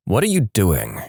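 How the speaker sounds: calm, understated question. Retold or imitated. Driving teacher to student on a back road, calm. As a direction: ask it evenly, as a calm teacher would. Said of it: "in the calmest voice".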